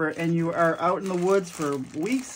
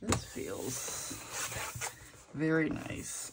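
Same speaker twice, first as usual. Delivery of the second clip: breathy whisper; 3 semitones lower, 10 dB quieter, much slower than usual. Real, not acted. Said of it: "ooh, this is very nice".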